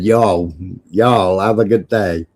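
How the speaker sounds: low, drawn-out American y'all; lightly hammed-up American accent; mock American accent. Shown as a demonstration. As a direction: put on a Southern American sign-off. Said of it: "I would have said".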